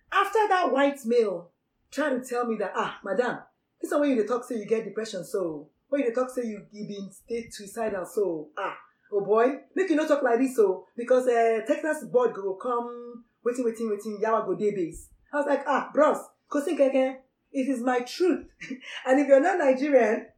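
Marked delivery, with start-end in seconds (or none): 2.7-15.1 Nigerian Pidgin. Acted. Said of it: "that is pure broken English". 15.7-18.5 casual Nigerian Pidgin reply to a bro. Acted. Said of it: "that is pure broken English".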